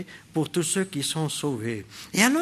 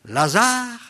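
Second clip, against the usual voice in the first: raised, higher calling voice; loud command; 6 semitones higher, 4 dB louder than usual. Acted. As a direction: call out the name with authority. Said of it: "Il cria d'une voix forte".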